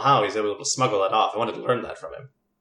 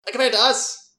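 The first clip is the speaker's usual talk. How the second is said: scoffing disbelief; 10 semitones higher, 5 dB louder than usual. Acted. NPC scoffs at the question.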